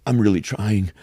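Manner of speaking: hushed, strained fake-cry; a touch of forced tears; mock crying actor. Mocking Batista trying to cry, hushed. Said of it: "And he's like".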